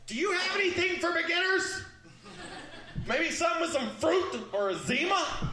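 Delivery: the tough line comes out meek; timid beginner. Retold or imitated. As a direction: shrink back and ask nicely. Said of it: "it sounded a little more like".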